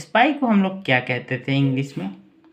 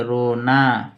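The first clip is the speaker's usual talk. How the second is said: slow dictation; much slower than usual. Shown as a demonstration. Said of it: "लिखेंगे".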